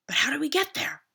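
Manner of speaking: high, loud goat question; worried goat. A narrator's reading. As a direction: ask it as a fretful young goat. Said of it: "asked Rough".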